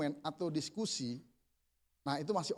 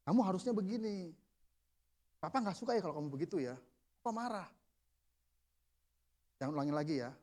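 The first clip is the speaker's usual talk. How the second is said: calm parental reproof; 4 dB quieter than usual. Acted. Models calm anger toward child.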